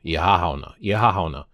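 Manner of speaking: Ihahauna with a stretched ih-ha opening; drawn-out first part. Shown as a demonstration. Host trying the longer form for viewers, stretched opening. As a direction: lean on the ih-ha before hauna. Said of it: "draw out the first part".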